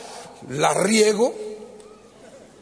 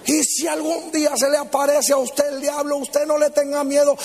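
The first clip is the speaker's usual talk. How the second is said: higher-pitched, mock fire-and-brimstone preaching; fiery preacher; 4 semitones higher than usual. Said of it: "predicando así con poder y fuego".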